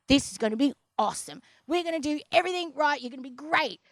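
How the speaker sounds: mildly hyped, quick pep talk; a touch of rapid-fire enthusiasm; pumped-up doctor. Retold or imitated. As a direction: imitate an eager doctor promising success. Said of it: "He was so pumped".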